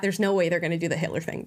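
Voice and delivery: quick, dismissive run-through; quick recalled thought, brushing it off; fast inner thought. Retold or imitated. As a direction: rattle off the thought quickly, half to yourself.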